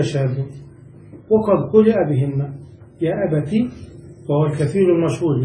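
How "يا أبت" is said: "يا أبت" ending in short -ti; kasra on the ta. Shown as a demonstration. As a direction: say "يا أبت" as ya abati. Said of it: "وتكسرها".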